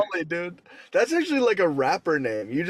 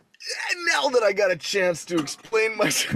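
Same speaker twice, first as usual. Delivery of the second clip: squeaky high then laughing; imitating Lat Molly; 5 semitones higher than usual. Mocking Lat Molly explaining himself, shrill high start. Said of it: "it's like".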